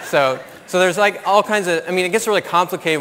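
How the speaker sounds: lifted pitch, still amused. Real, not acted. Still amused about the wives remark, talking to the audience, laughing. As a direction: carry the laugh into the point.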